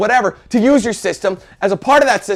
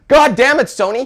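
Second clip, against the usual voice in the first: angry outburst; 5 semitones higher than usual. Real, not acted. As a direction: blurt it out in frustration. Ranting at Sony's security.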